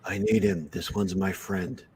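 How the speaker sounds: gruff helmeted bounty hunter; terse, gravelly Mandalorian line; Mando impression. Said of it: "That's my Mando impression".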